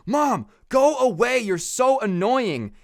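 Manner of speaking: high, loud, then slow and drawn-out brat voice; bratty whine. Retold or imitated. Son telling his mom to go away, slow bratty whine. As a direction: whine it like a spoiled kid.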